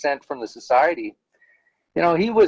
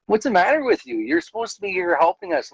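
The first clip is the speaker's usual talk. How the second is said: mild indignant rebuke, pitched up; higher-pitched mock telling-off; retold scolding; 5 semitones higher than usual. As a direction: tell someone off, replayed in an anecdote. Acted rebuke to an elder.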